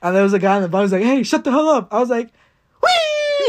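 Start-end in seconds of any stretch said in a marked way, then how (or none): 1.0-1.9 mock angry shout, higher and louder; annoyed yell. Guy at the bottom yelling at the rider, mock angry shout. 2.8-3.5 high squealing whee, louder. Retold or imitated. Spinning again on the swing ride, a louder, high mock-gleeful whee. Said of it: "I would say it louder, louder".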